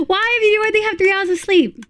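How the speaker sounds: surprised. Real, not acted. Teasing viewer about sleep.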